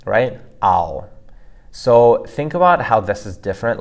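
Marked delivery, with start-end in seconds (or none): 0.6-1.0 "Ao" with a froggy o ending, louder. Shown as a demonstration. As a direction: let "Ao" end in a loud, froggy pinyin o. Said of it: "should have that similar frogginess".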